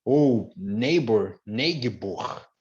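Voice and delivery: "neighbor" said as "ne-gi-bor", sounding the G H; wrong pronunciation. Shown as a demonstration. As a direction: mispronounce "neighbor" with a hard G. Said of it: "pronúncia errada?". ("neighbor" pronunciado errado, com G sonoro)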